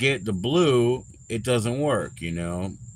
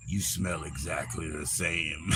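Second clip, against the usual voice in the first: put-on quoting old friend; 6 semitones lower, 10 dB quieter than usual. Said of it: "and he was like".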